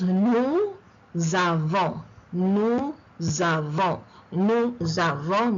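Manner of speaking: nous avons split slowly as "nou; liaison split. Shown as a demonstration. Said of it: "the S goes into the second word".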